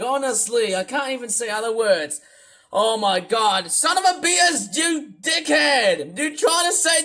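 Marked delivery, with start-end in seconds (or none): 3.7-7.0 furious ranting shout. Acted. Yelling abuse at the streamer who tricked him. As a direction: scream the insults out, dragging each word.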